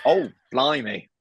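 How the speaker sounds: slow, mild dismay with falling pitch; understated British dismay. Acted. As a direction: react to a disaster with a slow, understated sigh of words. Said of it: "that's being British".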